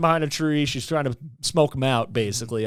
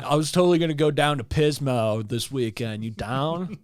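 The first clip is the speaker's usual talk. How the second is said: lightly voiced surfer dude; a hint of California surfer. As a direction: play a laid-back beach bro. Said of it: "like, surfer dude voice".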